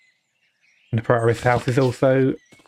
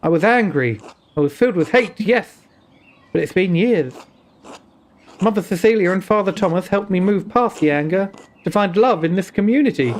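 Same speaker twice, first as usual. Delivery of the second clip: put-on Indian accent; 3 semitones higher than usual. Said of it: "an Indian accent".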